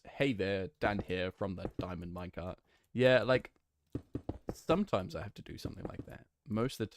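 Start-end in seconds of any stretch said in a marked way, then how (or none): 0.1-2.6 lightly done British YouTuber greeting; a hint of British accent, everyday level. Streamer showing a phrase that unlocks British, British accent. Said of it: "Like, British is".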